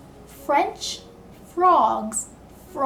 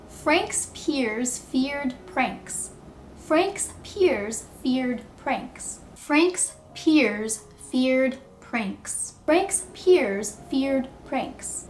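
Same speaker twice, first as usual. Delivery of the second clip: very slow, deliberate tongue twister drill; much slower than usual. Shown as a demonstration. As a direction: stretch each word for the learners to copy. Teacher drills short tongue twister.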